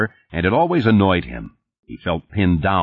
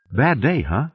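lightly sympathetic, higher pitched; a mild note of commiseration; 6 semitones higher than usual. A narrator's reading. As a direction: offer a little sympathy. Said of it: "she said sympathetically".

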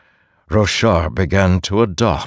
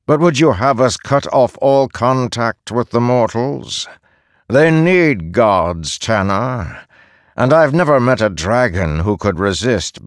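lightly voiced arrogant god; proud god voice; 3 semitones higher than usual. Reyes voiced by narrator.

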